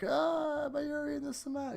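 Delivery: high, drawn-out fake cry of fright; mock horror. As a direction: act spooked in a high voice. Imagined reaction to creepy picture.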